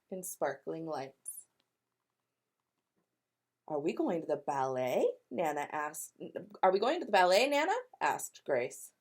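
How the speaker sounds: lively read-aloud with voiced characters; storybook narration. A narrator's reading. Teacher reading to kindergartners, animated storytelling. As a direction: tell it like a picture book for kids.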